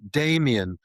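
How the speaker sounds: put-on English accent on Damien; really English. Shown as a demonstration. Bank worker anglifying his name for callers, English accent. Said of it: "like, really English or something".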